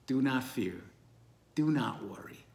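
gently steady frightened followers; calm reassurance. Acted. Jesus calming frightened followers.

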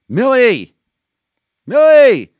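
high desperate screams of a name; screaming. Acted. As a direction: scream out of a nightmare. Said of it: "Private Maury screamed".

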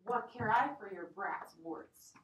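slow, loud contempt; scornful, deliberate retort; scornful anger. Acted. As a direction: sneer down at the old woman. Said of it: "cried the son".

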